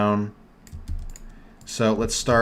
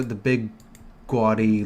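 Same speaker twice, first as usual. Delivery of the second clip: New York accent. Real, not acted. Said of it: "Oh, my New York accent came out".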